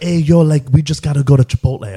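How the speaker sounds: put-on light Miami bro accent; mild mock Miami bro voice. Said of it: "the speaker has picked up the Miami accent"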